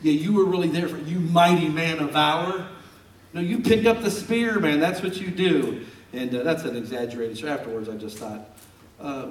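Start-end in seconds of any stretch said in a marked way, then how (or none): 0.0-5.9 teasing sarcasm. Retold or imitated. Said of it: "I just laughed my head off".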